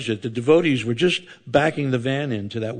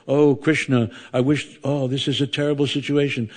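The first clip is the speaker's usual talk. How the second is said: desperate prayer; 4 semitones higher than usual. Retold or imitated. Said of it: "all you can think of".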